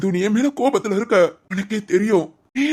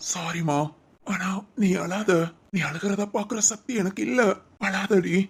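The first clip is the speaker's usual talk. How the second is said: soft tender apology; 5 dB quieter than usual. Acted. Husband softly begging his crying wife to stop crying. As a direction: hush your voice and beg her not to cry.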